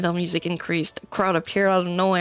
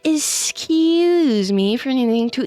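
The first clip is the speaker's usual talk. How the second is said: high, loud, slow haughty voice; snooty James; 4 semitones higher, 3 dB louder, slower than usual. Acted. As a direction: sneer it in a higher prissy voice. James snapping at Ash.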